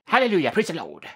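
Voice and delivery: preacher exclamation. Acted. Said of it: "I added that bit for dramatic effect".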